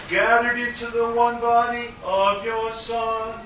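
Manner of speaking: liturgical intoning. Acted. Priest intones eucharistic preface.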